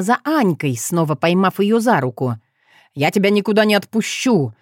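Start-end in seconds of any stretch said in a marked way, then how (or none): none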